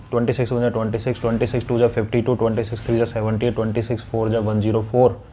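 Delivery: quick, even chant of a times table; times-table recitation. Shown as a demonstration. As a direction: rattle off the table as if from memory. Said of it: "जैसे मैं बोलता हूँ".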